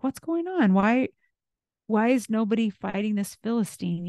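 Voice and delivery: put-on eager, curious young shepherd; excited questions. David at the camp asking the soldiers, excited. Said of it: "And he's excited".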